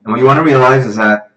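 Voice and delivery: projected, lively teaching voice; livestream presenter. Real, not acted. Tutor lays out tonight's review for students, projected. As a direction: address the online class with energy.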